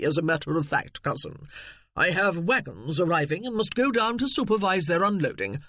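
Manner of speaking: a hint of a smug, condescending relative; mild snooty gentleman; pompous cousin. Cecil continues.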